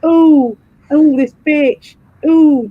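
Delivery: lightly mocking, drawn-out whining oohs; mock pub bore. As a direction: imitate someone harping on, stretching each "oh". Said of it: "there's always one who just always brings it back to".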